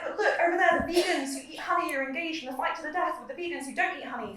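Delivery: high, loud, put-on voice for Cancer pointing elsewhere; cancer's distracting voice. Poet voicing Cancer as a distracting show-off, high and loud. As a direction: play Cancer as a pushy trickster steering attention away. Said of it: "Cancer is like".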